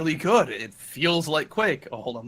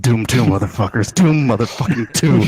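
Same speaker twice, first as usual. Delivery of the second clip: excited shout; 5 semitones lower, 6 dB louder than usual. Real, not acted. Hyped opening announcement.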